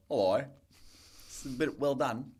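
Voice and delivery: imitated Australian mother; Australian accent. Son imitates mum returning restaurant food, Australian accent. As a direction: complain politely in an Australian accent. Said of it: "her Australian accent".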